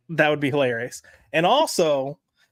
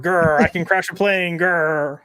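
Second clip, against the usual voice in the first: light mock growl on the grr; hint of a growly movie-star impression; Harrison Ford; 4 dB louder, slower than usual. Reading a viewer's Harrison Ford joke aloud, lightly growled. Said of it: "put Harrison Ford".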